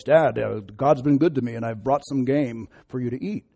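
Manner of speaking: lightly put-on brother's voice; slightly faked voice, trying to fool a father; a hint of impersonating the brother; Esau. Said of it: "in his best Esau voice".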